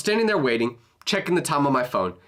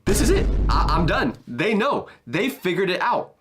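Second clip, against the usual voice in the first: panicked; 3 semitones higher than usual. Retold or imitated. Panicked thoughts walking to office.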